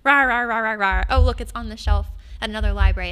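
loud mock-angry rah rah; hammed-up angry muttering turned triumphant; mock angry grumble. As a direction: growl in playful fury. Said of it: "angrily got on Sierra and was like".

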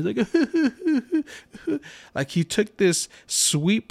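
high teasing fake whimper; the son fake-sobbing at dad in a high voice; mock crying. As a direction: imitate the son's mocking cry. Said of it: "when you're making fun of somebody that's crying".

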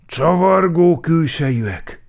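officer's shouted report; alarm call. A narrator's reading. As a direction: call out an urgent alert.

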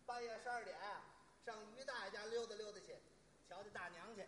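musing to oneself. Pretend. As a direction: think aloud under your voice, idly planning a visit. Acts musing alone before visiting. (小声自言自语)

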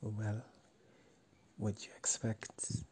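hushed, breathy-free whisper under her breath. A narrator's reading. Whispering back to Amy about the lack of men. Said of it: "I whisper back".

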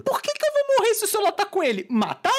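high, loud frantic squeal; hammed-up desperate outburst; panicked inner protest. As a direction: plead in a mock panic, voice way up. Acting out panicked inner thought during robbery.

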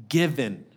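"given" set apart after a pause; pause, then land deliberately on "given"; stress on given. Real, not acted. Preacher stressing the child as a gift, emphatic "given". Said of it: "that emphasis on the word".

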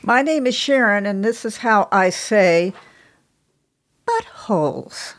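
second take. Shown as a demonstration. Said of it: "Let's try it one more time".

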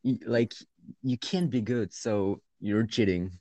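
sarcastic imitation of a mean teacher; mocking the teacher. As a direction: parody the teacher's illogic. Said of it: "she's like".

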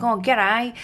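imitated broad Western Sydney greeting; lightly imitated Western Sydney twang; Western Sydney accent. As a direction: parrot a true-blue Western Sydney bloke. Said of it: "Murray is like Western Sydney".

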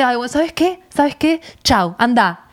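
imitating a dismissive brush-off; mock a husband waving the argument away; lightly acted haughty dismissal. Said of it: "Y como que me sobra".

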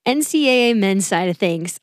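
smiling voice. Real, not acted. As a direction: smile you can hear in the words. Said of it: "there's an extra smile in my voice".

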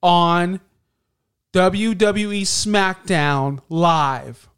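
slow, loud scripted wrestler read; robotic promo voice. Retold or imitated. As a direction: drag it out like a stiff script. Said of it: "not like robots".

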